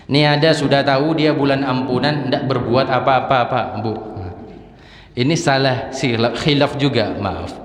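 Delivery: high, loud, impassioned preaching; fervent pulpit preaching; preaching at full force. Acted. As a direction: drive the point home to the congregation. Preacher raises voice again.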